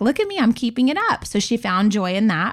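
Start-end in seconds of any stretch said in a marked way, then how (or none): 0.0-1.3 high, proud granny voice; imitating grandma. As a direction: play the beaming grandmother. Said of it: "And she was like".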